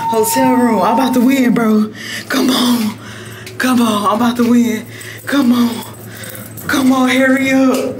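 loud, excited egging-on; loud, impatient race-time pleading; excited urging. Real, not acted. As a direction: cheer urgently for the win, loudly. Racing someone, urging the win.

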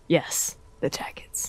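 slow, soft whisper. Acted. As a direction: whisper it conspiratorially. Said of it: "Lower your voice".

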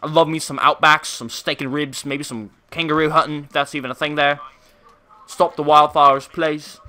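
playful mock-British accent; lightly put-on British accent; joking attempt at British speech. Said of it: "in our best British accent".

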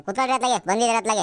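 high, huffy invitation to sit; annoyed granny. Acted. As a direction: tell guests to sit, still cross. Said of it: "ಸಿಟ್ಟು ಮಾಡ್ಕೋಬೇಡ ನೀನು".

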